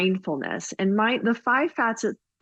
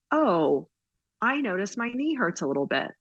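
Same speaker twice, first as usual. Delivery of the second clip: gently musing, lightly acted self-observation; pausing after "oh", then inquisitive; curious noticing; 3 semitones higher than usual. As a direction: wonder aloud with mild curiosity. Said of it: "being curious about it".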